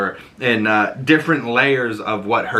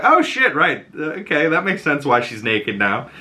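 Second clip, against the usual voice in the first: realizing; 4 semitones higher than usual. Retold or imitated. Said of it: "And I was like".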